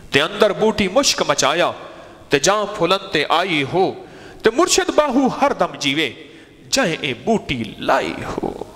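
preacher reciting Sultan Bahu's verse to his listeners; poem recital. Acted. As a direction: recite the Punjabi verse in a lightly chanted sermon voice.

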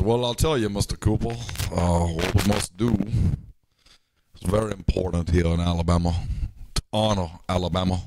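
slow, put-on Southern Alabama accent, lightly done; Jeff Sessions Alabama drawl. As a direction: mimic a genteel Alabama politician, stretching the words. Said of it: "Jeff Sessions sorta talks like this".

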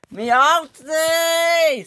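high squealing exclamation. Acted. Salty struck cries out.

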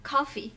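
"Coffee" with a short final ee sound. Shown as a demonstration. Teacher shows students the differing sound, short final y. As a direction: say "Coffee" cleanly with a brief last vowel. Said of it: "Ở đây là âm y ngắn".

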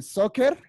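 "Soccer" with a long hissed s at the start, SSOC-cer, and a rising end; teacher correcting a pupil, drawing out the s; repeated model word. Shown as a demonstration. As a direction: lean on the s of "Soccer" to correct the child. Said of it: "otra vez".

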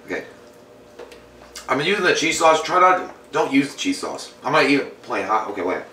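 talking through a bite; eating while talking; mouth full. Real, not acted. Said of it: "I'm gonna take another bite".

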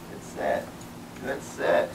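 breathy whispered good sit; whispered praise. Real, not acted. Trainer whispering praise to the sitting dog. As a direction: praise him under your breath.

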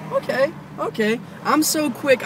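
excited self-hyping, pitch up; eager scheming Superman. Acted. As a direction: act out a hero talking himself into it.

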